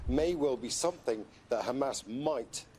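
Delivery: slow, leaning on the word might; stress on might. Real, not acted. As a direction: land hard on might. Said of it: "and I stress the word might".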